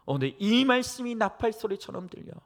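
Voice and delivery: normal talking voice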